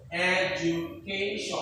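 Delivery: slow "Education" with stress on CA; stress on second-last syllable. Shown as a demonstration. Teacher models a four-syllable example, second-last syllable stressed. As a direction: draw out "Education" slowly, leaning on ca before tion. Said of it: "okay, second last syllable".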